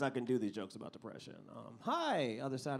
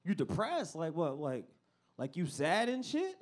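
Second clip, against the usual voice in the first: incredulous friend; 3 semitones higher than usual. Retold or imitated. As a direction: scoff at the idea. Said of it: "they're like".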